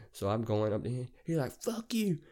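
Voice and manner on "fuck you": very high, strained yell at normal volume; high-pitched retold outburst; mock yell. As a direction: imitate the driver yelling an insult. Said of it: "we're just yelling it out".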